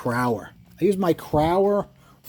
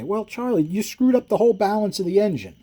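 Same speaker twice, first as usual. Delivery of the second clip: higher, mock critic voice; imagined critic; 8 semitones higher than usual. Imagined viewer objects to Charlie, in a higher mock know-it-all voice. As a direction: put on a smug know-it-all. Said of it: "somebody's gonna say".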